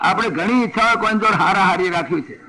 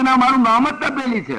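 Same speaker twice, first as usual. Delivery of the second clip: stubborn pot voice; 5 semitones higher than usual. Acted. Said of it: "પણ તપેલી કહે".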